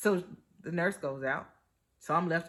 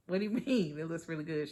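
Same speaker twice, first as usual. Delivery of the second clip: laughing disbelief; faster than usual. Retold or imitated. Disbelief at surprising good news.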